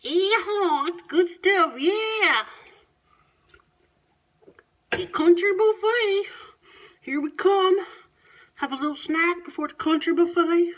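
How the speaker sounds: high, loud folksy whoop; loud and high, hammed-up delight; excited country yell.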